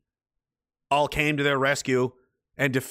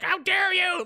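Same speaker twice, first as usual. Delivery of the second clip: mock indignation; slower than usual. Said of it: "they're like".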